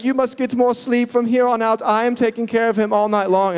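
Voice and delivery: high-pitched, imitated wifely insistence; upset wife impression. Wife taking over night baby care, mock upset insistence. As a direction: imitate a distressed wife laying down orders.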